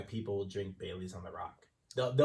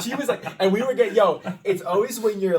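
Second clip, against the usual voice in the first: laughing, much higher and louder, rushing; bursting with laughter as he starts the story; 11 semitones higher, 13 dB louder than usual. Real, not acted. Laughing retelling busy bar.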